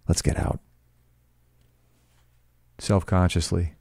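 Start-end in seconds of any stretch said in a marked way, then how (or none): 0.1-0.6 soft urgent whisper. A narrator's reading. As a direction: breathe it, voiceless, just for him. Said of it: "he whispered".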